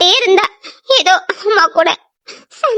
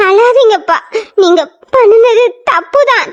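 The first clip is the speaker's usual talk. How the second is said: crying. Acted. Daughter pleads with weeping father.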